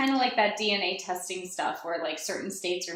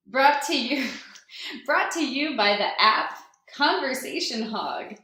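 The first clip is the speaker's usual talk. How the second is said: ad read. Shown as a demonstration. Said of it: "this is me reading our first ever sponsorship tier ad".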